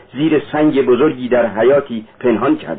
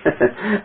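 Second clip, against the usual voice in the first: soft short laugh; 7 semitones higher, 5 dB quieter than usual. A narrator's reading. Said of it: "سپس لبخندی زد".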